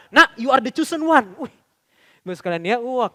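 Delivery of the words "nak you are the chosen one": slow, louder proud-dad proclamation; over-praising father. Acted. Another father praising his child, slow grand praise. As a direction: proclaim it slowly like a doting dad. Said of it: "ada lagi bapak yang pernah saya dengar cerita".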